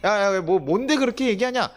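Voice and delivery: loud mock irritation; annoyed brush-off. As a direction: act out being bothered by a pestering kid. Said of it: "제가 너무 귀찮아서".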